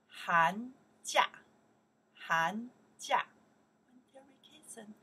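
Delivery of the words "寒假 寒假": 寒假 called out loud, rising; model pronunciation. Shown as a demonstration. Teacher drilling 寒假 for the class, loud. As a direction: say 寒假 clearly for repetition. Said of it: "we pronounce here".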